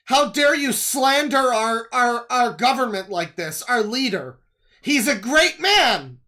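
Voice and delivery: mock patriotic outrage shouted; mock indignant loyalist. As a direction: ham up a scandalised online loyalist, slowing down. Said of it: "in the comments and be like".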